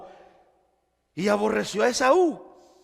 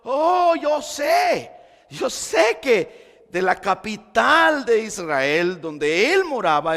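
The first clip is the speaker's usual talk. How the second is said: psalmist's fervent cry; 4 dB louder than usual. Acted. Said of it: "él está diciendo".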